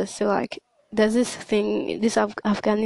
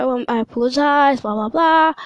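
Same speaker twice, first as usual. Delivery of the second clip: mock apology; 3 semitones higher, 5 dB louder than usual. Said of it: "so I was like".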